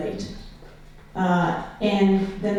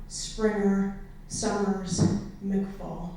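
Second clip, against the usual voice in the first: one name at a time, level pitch, set apart by pauses; solemn roll call of names; 3 dB quieter, much slower than usual. Acted. Poet reading surnames of troops killed in Iraq, solemn roll call. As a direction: intone each surname evenly and let it stand alone. Recites list of the dead.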